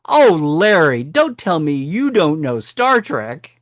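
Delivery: a teacher's hammed-up disbelief, drawn out; dismayed teacher. Teacher scolding her student for not knowing Star Trek, mock dismay. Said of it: "She goes".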